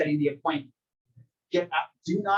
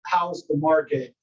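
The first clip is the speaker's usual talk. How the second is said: slow, measured question; slower than usual. Shown as a demonstration. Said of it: "when somebody asks you".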